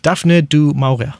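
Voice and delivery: Daphne du Maurier said slowly, word by word; careful repeat. Shown as a demonstration. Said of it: "Say it again?".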